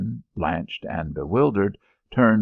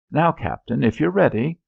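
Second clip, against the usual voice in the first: higher, raised voice to the captain; raised call; 8 semitones higher, 4 dB louder than usual. Acted. Officer calling out to the captain in battle. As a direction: call it across the field.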